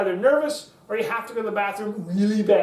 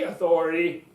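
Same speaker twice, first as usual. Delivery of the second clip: low, firm delivery; solid, lowered voice; authoritative; 4 semitones lower than usual. Shown as a demonstration. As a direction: drop it down for authority. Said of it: "keep your voice low for authority".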